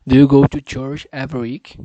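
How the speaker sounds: loud, deliberate speech for the app; practicing a sentence for the pronunciation app, loud and deliberate; loud careful repeat. Shown as a demonstration. Saying it loud for the machine to catch. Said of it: "Deixa eu ver se pegou direito".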